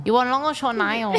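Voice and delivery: lightly voiced Vietnamese accent. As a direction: nail salon worker, mild Vietnamese accent. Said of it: "Vietnamese nail salon impression".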